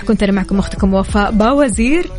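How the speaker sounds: usual speaking voice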